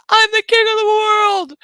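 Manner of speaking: high, hammed-up triumphant cry; Titanic movie quote. Streamer quotes the movie line, in a high mock-triumphant cry. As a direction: belt it out like on the ship's bow. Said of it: "James Cameron for quoting his own movie".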